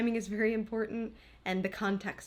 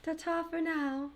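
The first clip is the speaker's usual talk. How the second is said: put-on old-timey voice; 7 semitones higher, slower than usual. Joining the old-timey bit.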